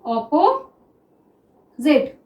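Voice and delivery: अपोजिट stretched very slowly, each sound held long; a slow teaching demo of अपोजिट; drawn out. Shown as a demonstration. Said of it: "देखिए किस तरह से".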